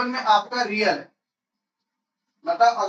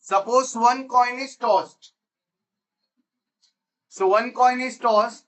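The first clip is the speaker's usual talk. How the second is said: very slow, word by word; spaced-out classroom dictation; 2 semitones higher, much slower than usual. Real, not acted. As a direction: dictate it slowly for note-taking.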